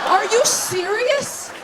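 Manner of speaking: high, slow disbelieving squeal; incredulous. Real, not acted. Comic reacting to a secret garden sex talk, drawn-out disbelief. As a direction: stretch it out in amazement.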